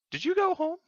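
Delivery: high, amazed "did you go home"; incredulous question. Retold or imitated. Coworker stayed overnight coding.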